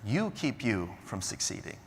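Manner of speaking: quiet, simple, calm advice; a mentor's plain, calm verdict; said very simply. Retold or imitated. Mentor telling Brigham his hard truth, quiet and simple. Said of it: "he said it very simply".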